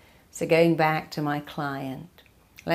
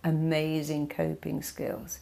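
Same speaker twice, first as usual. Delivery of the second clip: confident affirmation. Shown as a demonstration. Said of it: "or you can choose to go".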